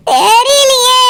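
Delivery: teary helpless answer; tearful. Acted. Girl unsure of her groom, tearful. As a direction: say it near tears.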